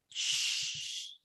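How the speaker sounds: whispered shh. Acted. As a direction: hush it in a whisper. Janitor hushes, unvoiced.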